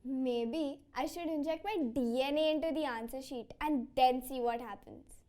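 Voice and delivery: dry, understated sarcasm; sarcastic. Acted. Student talks back to parent about maths, sarcastic. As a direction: answer back with mild sarcasm. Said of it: "Don't be sarcastic with me".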